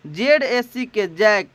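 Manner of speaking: letters spelled out slowly one by one; spelling slowly. Shown as a demonstration. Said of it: "इसकी शुद्ध उच्चारण होती है जैक". (धीरे धीरे अक्षर बोलना)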